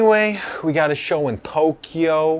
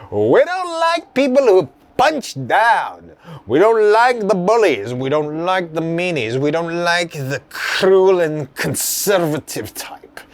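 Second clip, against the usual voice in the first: poetic scolding with swooping pitch; disapproving venue voice. Acted. Venue rejecting the tour poster, declaimed disapproval. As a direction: chant each objection, falling at the end. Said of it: "The venue says".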